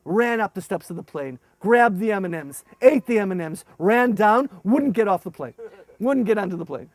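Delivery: normal talking voice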